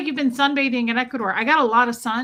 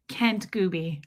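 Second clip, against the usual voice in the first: "Kent Gooby" run together, lower in pitch; "Kent Gooby" as one low unit; one-worded name; 4 semitones lower, 3 dB quieter, slower than usual. Shown as a demonstration. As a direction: join "Kent Gooby" with no gap, falling at the end. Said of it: "I'm gonna one word it".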